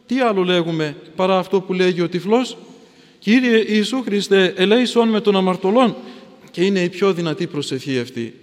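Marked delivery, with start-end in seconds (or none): 3.2-6.0 Jesus prayer. Shown as a demonstration.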